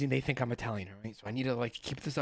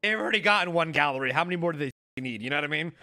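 lightly put-on New York Italian accent. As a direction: play a Brooklyn Italian guy, a touch hammed-up. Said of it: "this accent that you've decided to put".

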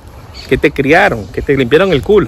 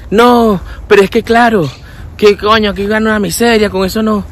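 higher-pitched imitation of a complainer; mock complaining; 4 semitones higher than usual. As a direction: grumble like a dissatisfied newcomer. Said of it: "tú lo ves quejándose". (imitando a un quejica)

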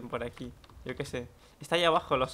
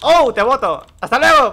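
loud, high gloating yell; triumphant shout; 9 semitones higher, 15 dB louder than usual. Real, not acted. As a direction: shout as the enemy falls. Knocks an enemy off. (grito triunfal)

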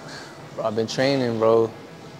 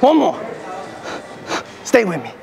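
straining mid-set; 7 semitones higher than usual. Real, not acted. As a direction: grunt it out under the weight. Straining through a heavy lifting set.

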